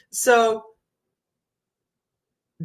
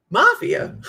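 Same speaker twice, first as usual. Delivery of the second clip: mock shocked question; 8 semitones higher, 6 dB louder than usual. Mock reaction, repeated.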